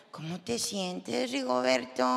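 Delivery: slow sarcastic question, sweet on the surface. Retold or imitated. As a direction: fake sweetness to a fainted husband. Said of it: "sarcásticamente".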